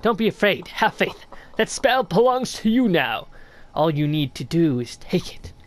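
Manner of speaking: lightly voiced sly old snail, curious; a hint of a creaky old mystic greeting a stranger; snail shaman voice. Streamer reading the shaman's greeting to the knight, lightly voiced old mystic.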